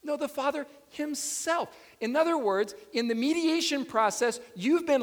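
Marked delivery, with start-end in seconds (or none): 0.2-1.7 "himself" set apart and punched after "the Father"; stress on himself. Shown as a demonstration. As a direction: correct it by leaning on "himself". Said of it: "The emphasis is on himself".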